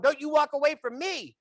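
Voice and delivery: high, hammed-up warning; mock indignant call. Bystander to stranger packing up to leave, mock indignant. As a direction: call after someone who is leaving. Calls after fleeing phone talker.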